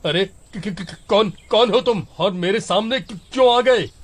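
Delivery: stuttering in fear, rising to a high yelp; terrified teacher stammering at the devil; frightened stammer. Acted. (डर से हकलाते हुए)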